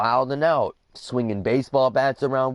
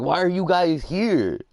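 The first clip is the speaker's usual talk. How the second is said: high imitation of Dad in standard English; indignant dad, corrected; 8 semitones higher than usual. Correcting the quote of dad questioning police, indignant. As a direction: ask it high and pointed, as Dad. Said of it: "my dad uses better English than me".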